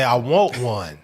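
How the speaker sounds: low, slipped-out confession. Retold or imitated. Host repeating the pastor's hidden wish, low and sly. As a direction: let it slip under your breath. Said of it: "He wanted to say".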